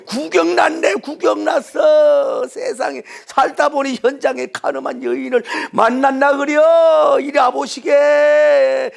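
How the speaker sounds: loud, drawn-out hollering; rowdy crowd clamour. Acted. Noisy onlooker calling people to see the accused woman, rowdy hollering. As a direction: holler like a gawker summoning everyone. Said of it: "군중이 요란하고 떠들고 난리법석을 하고".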